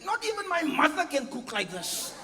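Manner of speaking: husband gushing over his wife's food; hammed-up praising husband. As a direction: overdo the compliment with a laugh.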